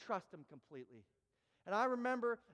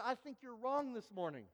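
confident, matter-of-fact retort; firm and certain correction; sure of himself; 4 semitones higher, 4 dB louder than usual. Retold or imitated. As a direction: brush it off as a mix-up. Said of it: "So I, I start to panic".

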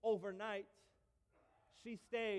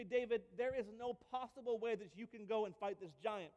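doubting king; 3 semitones higher, 5 dB louder than usual. Retold or imitated. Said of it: "And he actually says".

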